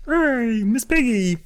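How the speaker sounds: high puppet greeting, long vowels; Kermit the Frog. Acted. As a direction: call out in a mock high frog voice. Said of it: "I don't know why I'm doing a Kermit voice for that".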